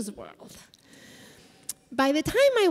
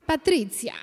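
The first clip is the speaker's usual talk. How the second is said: put-on Italian accent. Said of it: "said my name with an Italian accent".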